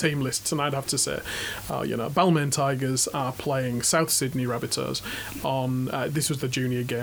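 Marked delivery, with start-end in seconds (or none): 1.7-5.9 put-on Yorkshire accent. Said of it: "in my Yorkshire accent".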